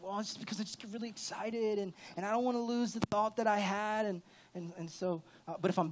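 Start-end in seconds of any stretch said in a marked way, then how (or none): 0.0-4.1 a hint of a higher, sweet-talking excuse; lightly put-on smooth excuse; sugarcoating excuse. Pastor mimicking his own sugarcoated excuse, lightly higher. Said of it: "I'm gonna be like, trying to sugarcoat it".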